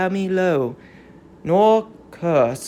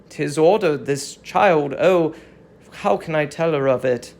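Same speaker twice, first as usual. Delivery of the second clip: lower, heavy voice of a herald who dreads his news; reluctant herald; 5 semitones lower than usual. Acted. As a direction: speak as a herald unwilling to deliver the message. Herald voice again.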